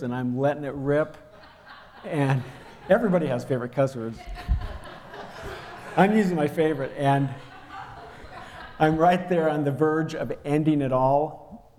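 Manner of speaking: chuckling through the words; laughing while telling. Real, not acted. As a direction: laugh at yourself while confessing. Laughs recalling his cussing.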